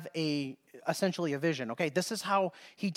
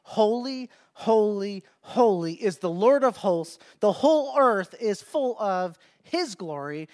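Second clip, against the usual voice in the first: measured, reverent proclamation, lightly raised; a restrained version of seraphim crying out; mildly raised cry; 3 semitones higher than usual. Acted. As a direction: call out each holy with a little lift. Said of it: "they're shouting and saying".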